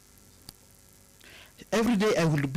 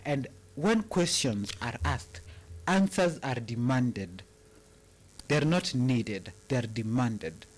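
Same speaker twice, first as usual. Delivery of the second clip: put-on American-style accent; 2 semitones lower than usual. Quoting Olivia Pope to listeners in an American accent. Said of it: "you have to speak in a, in a, in, in, like, that accent".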